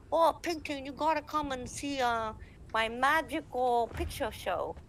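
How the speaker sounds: high, eager put-on player voice; imitated fan. Player invites Ping Ting to his show, high put-on voice. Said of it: "and then he's like".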